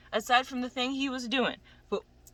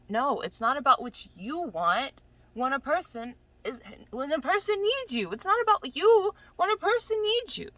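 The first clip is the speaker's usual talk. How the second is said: impassioned, higher-pitched insistence; heated rant; 5 semitones higher, 3 dB louder than usual. Real, not acted. Telling off someone who gave half effort, heated and insistent. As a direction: climb higher and louder, driving the point home. Ranting at unhelpful people.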